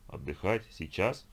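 questioning rises, a touch of disbelief; mild surprise. Acted. Eliken questions Lisha's order to rest, mildly surprised. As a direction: ask it half incredulous. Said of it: "удивился Эликен".

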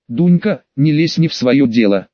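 plain reading voice

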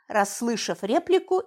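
usual speaking voice

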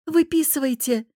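brisk little command; demanding. A narrator's reading. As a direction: insist on being let go. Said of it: "потребовала".

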